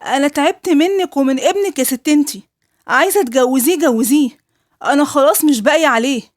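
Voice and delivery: wife snapping back at her mother-in-law in anger; angry outburst. Retold or imitated. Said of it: "وقلت لها بغضب".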